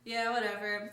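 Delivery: blasé, everyday delivery; casual, unbothered. Retold or imitated. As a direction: say it as if not really excited. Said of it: "We were just kinda like".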